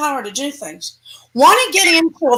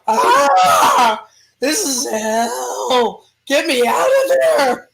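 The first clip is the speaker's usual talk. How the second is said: groaning demon, slow and pained; much slower than usual. Acted. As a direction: drag it out like a suffering demon. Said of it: "And the demon goes".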